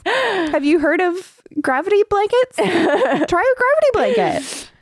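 high, playful wheedling; mock coaxing. Host suggests blanket trances to the character, high mock coaxing. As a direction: pitch it high, like a tentative helpful suggestion.

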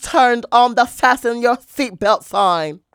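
loud flight attendant PA voice; airport announcement. Pretend. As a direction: announce it like a pilot over the intercom. Mock flight attendant intro.

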